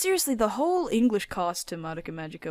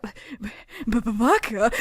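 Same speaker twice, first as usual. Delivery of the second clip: flustered anime stammer; slower than usual. Pretend. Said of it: "Homura's gonna be like".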